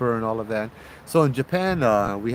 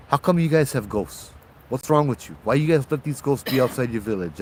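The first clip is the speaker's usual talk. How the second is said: annoyed complaint. Acted. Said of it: "It's like".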